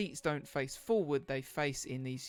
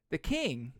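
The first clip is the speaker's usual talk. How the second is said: game master narration. Acted. Game master describes the scene.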